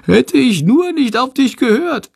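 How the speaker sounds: high, squeaky bat whine; whining. A narrator's reading. Bat blames his friend for the flight, whining high. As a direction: lament it in a tiny high voice. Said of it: "jammert Shandor".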